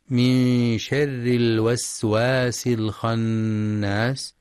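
slow, measured tajweed recitation; Quranic recitation. Shown as a demonstration. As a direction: recite the verse slowly with tajweed. Quran verse recited in lesson. (تلاوة مجودة بطيئة)

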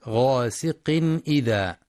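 "غاسق إذا" with a distinct n before the hamza; clear tanween. Shown as a demonstration. Teacher demonstrating izhar, "غاسق إذا" with clear n. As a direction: sound the nun fully in "غاسق إذا", slowly. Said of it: "الإظهار الحلقي للتنوين".

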